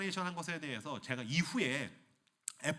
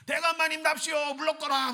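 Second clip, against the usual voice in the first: herald calling out, higher and louder; 12 semitones higher, 7 dB louder than usual. Acted. Herald announcing procession.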